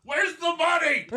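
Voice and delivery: high laughing mockery; mock bandit. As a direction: laugh out a squeaky demand. Player mimics bandit laughing.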